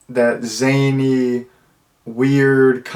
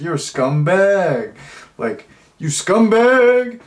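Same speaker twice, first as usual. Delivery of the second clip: slow, stretched scumbag, the second much higher; drawn-out insult; 7 semitones higher, slower than usual. Retold or imitated. Grandfather calling Travis a scumbag, slow and drawn out. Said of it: "really, uh, like, drawn out".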